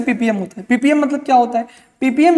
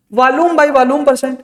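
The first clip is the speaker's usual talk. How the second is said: slow dictation; 2 semitones higher, much slower than usual. Shown as a demonstration. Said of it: "teacher dictating term slowly".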